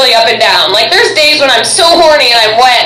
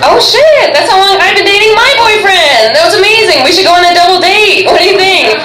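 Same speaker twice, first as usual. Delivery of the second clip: high-pitched, eager outburst; excited gushing; 6 semitones higher than usual. Pretend. Comedian proposing a double date to a couple, excited gushing. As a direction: gush like a new best friend.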